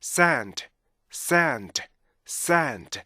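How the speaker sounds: SAND with a two-beat vowel, full N and D; "sand" drawn out as sa-and; blended sand. Shown as a demonstration. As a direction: join the beats of "sand" without rushing. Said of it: "이렇게 읽어야 되고요".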